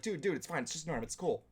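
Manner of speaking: lightly imitated, understated alarm; retold mild alarm. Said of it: "he's trying to be more alarmed".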